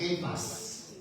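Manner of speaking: Cephas said KAY-fas, with a hard K; hard K and long A in Cephas; proper pronunciation. Shown as a demonstration. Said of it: "That's a proper pronunciation".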